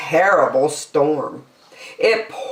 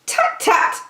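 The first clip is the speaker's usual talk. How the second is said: high, breathy dismissive tut; whispered tut tut. Acted. Lazy bird brushing off the elephant, whispered. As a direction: brush his worry off lightly.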